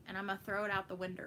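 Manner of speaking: quick Texan phrasing, words run together; Texas accent. Shown as a demonstration. Streamer showing a Texas thing, fast Texas accent. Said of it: "that's a Texas thing".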